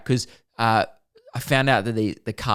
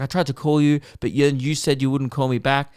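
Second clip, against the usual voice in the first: mildly annoyed, higher-pitched retelling; retold telling-off; 4 semitones higher than usual. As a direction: imitate someone having a go at you. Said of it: "kinda teeing off at me".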